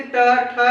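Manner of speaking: ट, ठ with the tongue tip curled back; deliberate ट, ठ, tongue tip striking the roof; retroflex demo. Shown as a demonstration. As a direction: sound out ट, ठ as retroflexes. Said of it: "जीवा का जो अग्र छोर है".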